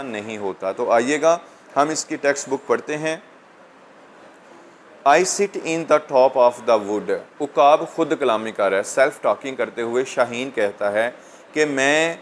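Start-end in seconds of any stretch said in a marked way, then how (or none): 5.1-7.2 slow, measured verse reading; poem reading. Real, not acted. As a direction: read the line out slowly for students. Reads poem line aloud to students.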